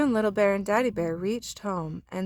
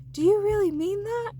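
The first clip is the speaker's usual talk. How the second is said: surprised little bear; 13 semitones higher, 3 dB louder than usual. Acted.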